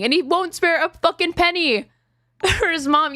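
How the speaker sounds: high pitched exasperated rant breaking into a laugh; laughing in disbelief. Real, not acted. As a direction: laugh out the outrage mid-sentence. Ranting in disbelief about Adam.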